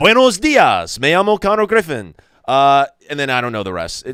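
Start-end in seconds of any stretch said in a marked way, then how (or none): 0.0-2.1 pitched-up Spanish announcer-type delivery. Doing a spanish introduction when asked: spanish announcer type voice. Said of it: "the Spanish announcer type voice".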